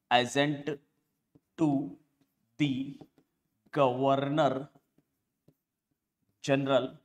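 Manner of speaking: slow, with a long pause after each word; word-by-word dictation. Shown as a demonstration. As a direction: dictate it one word at a time. Repeats term word by word for notes. (शब्द-दर-शब्द, रुक-रुककर लिखवाते हुए)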